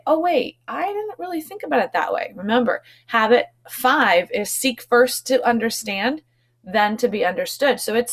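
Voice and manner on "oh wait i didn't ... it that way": high, quick sudden realization; realizing. Pretend. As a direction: voice someone changing their mind. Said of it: "I could maybe say".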